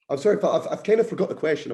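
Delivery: tumbling out words in real excitement; excited. Real, not acted. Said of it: "I've got quite excited, you can tell".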